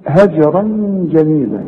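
هجرا recited with a bounced j before the r; qalqalah on ج. Shown as a demonstration. Teacher pointing to the second jim, qalqalah in هجرا. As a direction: let the ج echo in هجرا. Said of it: "إنما الثانية".

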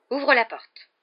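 high, loud, urgent command; hissed order. A narrator's reading. Aunt ordering her nephew to the door, hissing urgently. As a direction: order it sharply, pitched well up. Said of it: "d'une voix sifflante".

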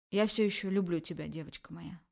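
softening, tender confession; warm tender. Acted. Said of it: "тембр голоса поменялся, стал тёплым".

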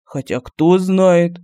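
very slow, drawn-out "Хотя кто знает"; slow musing. A narrator's reading. Medallion musing to itself, very slow and drawn out. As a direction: let it linger, unsure. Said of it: "задумчиво сказал Мар".

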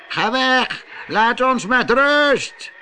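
high, frightened cry through the door; scared high voice. A narrator's reading. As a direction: call out high and afraid. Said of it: "Een stem riep bang".

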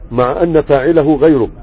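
slow correction: مع ان فاعله غيره; corrected reading. Shown as a demonstration. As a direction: read مع ان فاعله غيره slowly and clearly. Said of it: "مع ان ولا مع انه؟".

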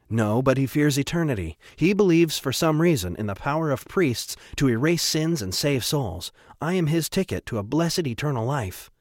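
lightly voiced, lilting priest; knowing priest. O'Shea explains Trevor to Atticus, lightly voiced priest. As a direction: explain it with a priest's self-assurance.

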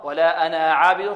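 أنا with the final a held long; wrong alif pron. Shown as a demonstration. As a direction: lengthen the alif of أنا into عابد. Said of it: "خطأ".

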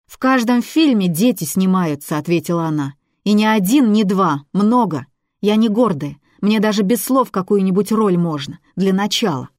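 put-on girl talking herself up, insistent; young girl selling her film dream to a skeptical man; eager girl voice.

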